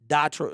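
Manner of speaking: "Detroit" said as duh-troit; "Detroit" opening on an open, short vowel; duh-troit pronunciation. Shown as a demonstration. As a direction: say "Detroit" with duh as the first syllable. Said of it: "I say it like Detroit".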